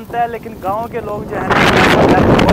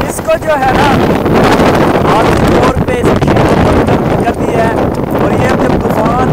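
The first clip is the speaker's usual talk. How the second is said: raised voice above the wind; shouting over wind; 5 dB louder than usual. Real, not acted. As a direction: call out over the storm noise. Machine stopped in a strong storm. (तेज़ हवा में ऊँची आवाज़ में बोलना)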